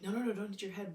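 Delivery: put-on a touch of alarm, cutting the child off; mild panic. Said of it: "I panicked and I'm like".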